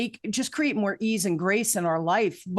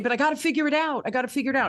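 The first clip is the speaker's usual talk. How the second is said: frantic insisting; 5 semitones higher, much faster than usual. Retold or imitated. Retold self insisting, frantic.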